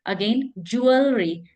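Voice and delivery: ज्वेलरी spelled out slowly as "jew-uhl-ree"; slow pronunciation demo. Shown as a demonstration. Teacher modelling ज्वेलरी for learners. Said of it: "सबसे पहले pronunciation".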